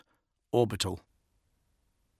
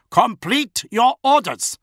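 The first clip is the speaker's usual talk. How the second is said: higher, louder stern threat; 14 semitones higher, 8 dB louder, slower than usual. A narrator's reading. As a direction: threaten coldly but loud. Bodyguard choking officer.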